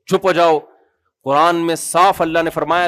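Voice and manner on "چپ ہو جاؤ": mock brush-off; a hint of a master shooing a servant; scolding a servant. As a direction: wave him off like a servant. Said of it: "جو ملازمین کو نہیں جھڑکا جاتا".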